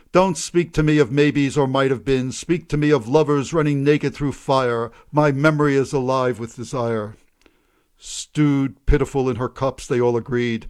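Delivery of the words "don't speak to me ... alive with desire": a hint of a sharp old woman, a bit louder. Old Missus Green shouting from her window, mildly sharp. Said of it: "cried sharply".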